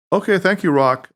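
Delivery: half-hearted thanks, going through the motions; without conviction. Acted. Harry humoring his friend, thanking a rock, unconvinced. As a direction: say it like you don't believe it. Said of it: "without much conviction at all".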